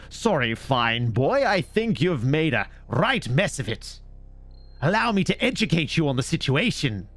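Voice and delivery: a hint of a snooty know-it-all; mock posh speaker. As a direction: talk down like a pretentious toff. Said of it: "people don't talk like that".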